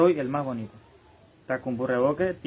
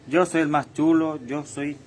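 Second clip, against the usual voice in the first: cocky boast; 2 semitones higher, 5 dB louder than usual. Acted. Boastful loud self-praise.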